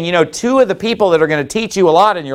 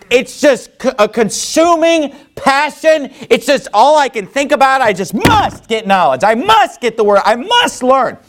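raised pitch, insistent and urgent, leaning on MUST; consuming passion; 6 semitones higher than usual. Acted. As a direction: act out a burning need to know. Preacher acts out consuming desire to learn.

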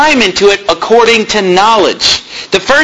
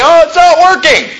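mock frustrated parent; 8 semitones higher than usual. Preacher imitates a parent whose spankings fail, exasperated outcry. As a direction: play the fed-up parent, overdone. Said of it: "and you say".

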